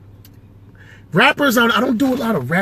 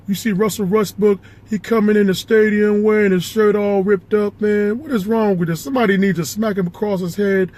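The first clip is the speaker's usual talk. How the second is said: exasperated sports pundit impression; Charles Barkley; 2 semitones higher than usual. Sports pundit complaining to Kenny about Westbrook, Charles Barkley impression. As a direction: rant at a co-host in an impersonated voice. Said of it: "Charles Barkley".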